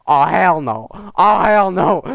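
amused imitation of disbelief, rising on the repeat; mock appalled reaction. Reviewer voicing a shocked onlooker, mock appalled.

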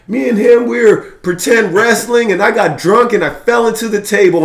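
very high-pitched female impression; imitated sister. Sister comes out to explain, imitated in a high voice. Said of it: "The sister comes out".

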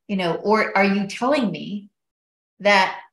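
imitating her angry son grilling the doctor; son's angry rant. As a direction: fire it off like an outraged son. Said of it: "Like, he's pissed".

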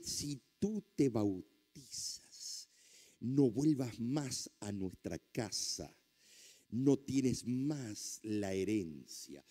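slow, deliberate, measured warning; retold ultimatum. Wife forbidding her husband's baptism, slow deliberate ultimatum. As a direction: spell out each threat slowly, spacing the phrases.

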